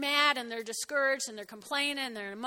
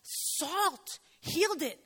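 lightly sends up a gullible churchgoer; flaky Christian; 3 semitones higher than usual. Pretend. Flaky Christian gushing over healing salt, mildly mocked. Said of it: "But this would be weird flaky".

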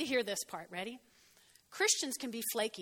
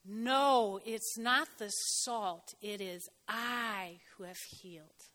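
slow, softer and lower, tender and near tears; God's gentle reply; 4 semitones lower, 3 dB quieter, slower than usual. Acted. God answering flaky believers, slow and tender. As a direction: let it fall quietly and sincerely. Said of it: "God said".

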